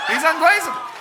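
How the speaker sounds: can't hold back the laugh. Real, not acted. Preacher joking with students about glazing God, laughing.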